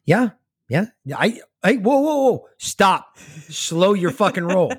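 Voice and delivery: high excited whoa whoa; rising excited protest. Real, not acted. Excited interruption over census.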